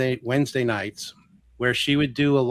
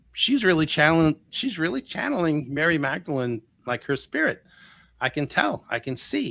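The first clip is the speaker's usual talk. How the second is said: raised pitch, retold amazed insistence; earnest insistence; 6 semitones higher than usual. Man convincing his friend the channeling is real, insistent.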